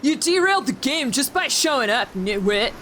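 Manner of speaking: cocky jock, lightly voiced. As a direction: toss it off like a dumb jock. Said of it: "Okay, jock voice".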